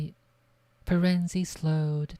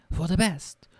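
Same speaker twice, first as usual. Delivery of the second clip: angry scoffing echo; 4 semitones higher, 4 dB louder than usual. A narrator's reading. Bane mocking Firenze in anger.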